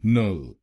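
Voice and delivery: "नल" said alone as "nəl"; syllable demo. Shown as a demonstration. Teacher isolating syllable for students. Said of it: "आखिरी शब्दांश को बोलिए".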